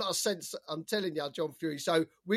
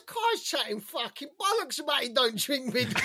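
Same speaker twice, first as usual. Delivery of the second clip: laughing retold mate; 4 semitones higher than usual. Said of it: "He goes".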